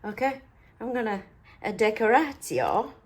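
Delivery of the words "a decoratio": put-on playful, made-up Italian accent. Crafter announcing decoration to viewers, mock Italian accent. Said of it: "Was that an Italian accent?".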